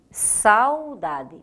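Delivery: SAUDADE with "sau" held as one syllable; diphthong in one syllable. Shown as a demonstration. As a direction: say "Saudade" with a and u glided together. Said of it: "numa única emissão sonora".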